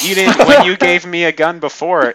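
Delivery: loud, incredulous protest in Klein's mouth; mock indignant argument. Reader acts out Klein doubting the gun is loaded, mock indignant. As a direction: argue it loudly, imitating a character who won't believe it. Retelling Klein arguing at gunpoint.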